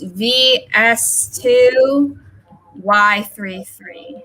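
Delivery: spelling it out slowly, each character clear; slow dictation. Shown as a demonstration. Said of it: "I need to apologize".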